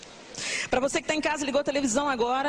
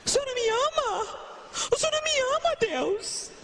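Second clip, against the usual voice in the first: whiny believer; 12 semitones higher, faster than usual. Retold or imitated. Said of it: "believer complaining to God".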